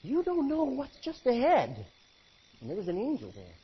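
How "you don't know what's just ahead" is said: higher, changed voice for the donkey. Acted. The donkey warning Balaam, in a lightly put-on animal voice. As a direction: warn him like a wise animal. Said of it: "He said".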